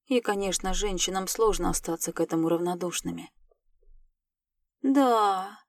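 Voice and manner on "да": drawn-out, mildly sly yes; snide drawl. A narrator's reading. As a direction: stretch it out with a touch of malice. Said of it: "ехидно протянула я".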